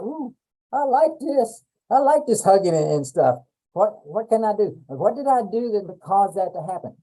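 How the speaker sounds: voicing the baby's delighted thoughts, high pitched; curious baby voice.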